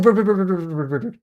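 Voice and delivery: rapid high calls, fading at the end; calling out repeatedly. Real, not acted. Streamer calling after Bird as she leaves, rising calls. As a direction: call after her before she leaves.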